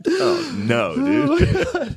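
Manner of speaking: sudden high squeal of disbelief; shocked squeal. Real, not acted. Friend reacting to the crude joke, high shocked squeal.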